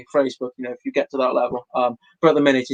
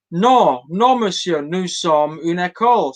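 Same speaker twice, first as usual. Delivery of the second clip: head teacher; 4 semitones higher, slower than usual. Retold or imitated. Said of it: "said the head teacher".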